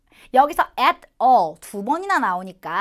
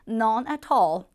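British accent; much slower than usual. Shown as a demonstration. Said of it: "영국식으로는".

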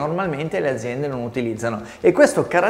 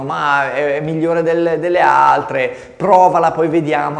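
mock hesitant pitch; 3 semitones higher, 6 dB louder than usual. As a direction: pretend to be an unsure brand pushing a trial. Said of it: "Non è che dicono".

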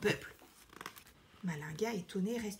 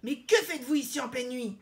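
raised, questioning surprise; surprised; 3 semitones higher, 6 dB louder, faster than usual. A narrator's reading. Lion questioning his followers at night, surprised. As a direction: demand an explanation, taken aback. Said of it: "interroge le lion surpris".

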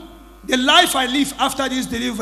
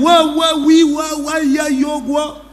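excited exclaiming; 3 semitones higher, 5 dB louder, slower than usual. Real, not acted. Pastor reacts in disbelief.

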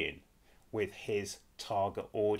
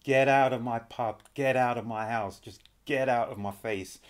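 mock landlord; 6 dB louder than usual. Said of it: "would love to say those words".

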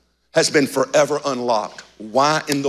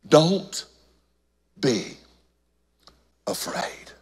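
soft words sinking to a whisper on "afraid"; fading whisper; 6 dB quieter, slower than usual. Acted. Pastor voicing Jesus comforting fallen John, fading whisper. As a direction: let it fade into a breath, gently reassuring.

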